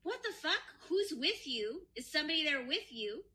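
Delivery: high-pitched retold alarm; acted shocked accusation. Retelling wife hearing a woman's voice, mock shocked accusation. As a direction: imitate a wife firing off incredulous questions.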